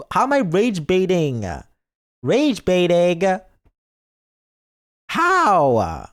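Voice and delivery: high, emphatic mock outrage; incredulous indignation. Streamer reading chat's rage baiting accusation, loudly incredulous. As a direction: protest loudly, stretching the accusation in disbelief.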